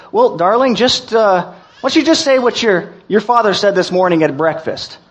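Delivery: a touch of a sweet, reassuring mom; reassuring mother. Acted. Mother coaxing her son to say grace, sweetly reassuring. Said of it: "gave him a reassuring smile".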